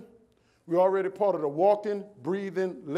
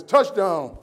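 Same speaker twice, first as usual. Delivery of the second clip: stadium cheer; 7 dB louder than usual. Retold or imitated. Cheering son's touchdown at game.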